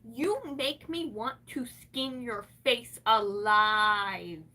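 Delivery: mock cooing that turns menacing; mocking gushing quote. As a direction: parrot them in a sugary squeal then drag it out. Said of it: "they're like".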